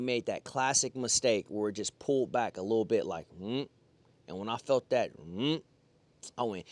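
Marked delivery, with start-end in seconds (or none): 3.4-3.7 quick grunt for a slight pull; short tugging "mm". Retold or imitated. Angler showing the pull on his line, short grunt. Imitates a small tug back. 5.2-5.6 brief low hummed grunt; short tugging "mm". Retold or imitated. Angler retelling when he felt that pull, short grunt. Imitates feeling the tug.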